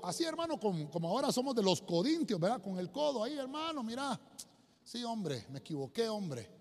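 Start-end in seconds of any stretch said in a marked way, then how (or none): 4.8-6.5 soft, falling admission of fault; lightly acted, low-key apology; acted sheepish apology. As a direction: play a brother quietly owning up. Acts brother apologizing in reconciliation.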